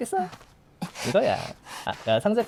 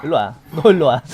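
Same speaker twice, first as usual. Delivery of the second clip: loud call; 7 dB louder than usual. Acted. Calling survivor over.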